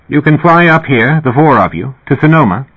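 put-on slight British accent. A narrator's reading. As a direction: lift the voice, a hint of British English. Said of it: "voice with a slight British accent".

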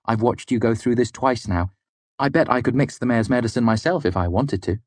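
put-on airily overconfident young lord; smug. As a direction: boast like a clueless nobleman. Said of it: "with all the ignorant self-confidence".

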